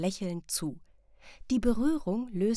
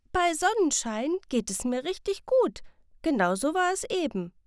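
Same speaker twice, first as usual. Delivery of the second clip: put-on bright child voice, much higher and louder; happy child; 9 semitones higher, 4 dB louder than usual. Sam realizing the sun means feeling good, happy child. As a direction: beam as it clicks.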